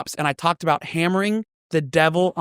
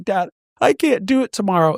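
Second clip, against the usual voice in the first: higher-pitched imitation of a pleading kid; retold tearful plea; 4 semitones higher than usual. Sunburned son begging his dad, mock tearful plea. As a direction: plead with dad, lightly acted. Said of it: "I remember crying and be like".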